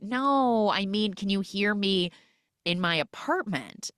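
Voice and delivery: high, chirpy neighbor voice; bubbly, lightly teasing neighbor; bright neighbor voice. Retold or imitated. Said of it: "And she was like".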